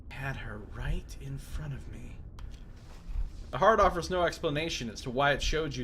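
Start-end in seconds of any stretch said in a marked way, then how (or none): 0.1-2.2 whisper. Acted. Matkina whispering in shock.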